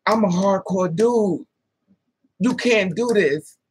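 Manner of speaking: slow, emphatic, drawn-out words; imitated earnest warning. Hardcore dude warning Raven off, slow imitated insistence. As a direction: spell it out slowly as the man would.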